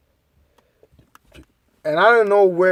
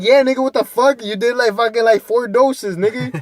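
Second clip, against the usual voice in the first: mock scolding; 5 semitones higher than usual. Scolding Pedro for overdoing.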